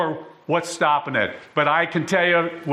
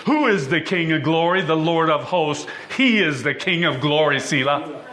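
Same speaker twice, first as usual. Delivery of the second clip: raised, fervent psalm reading; scripture recitation; 2 semitones higher than usual. Acted. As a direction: proclaim the psalm to the congregation.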